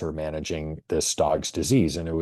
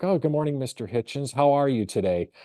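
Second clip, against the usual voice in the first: higher, mock-cheerful clinic greeting; chirpy clinic receptionist; 7 semitones higher than usual. Clinic staff greeting Hitchens.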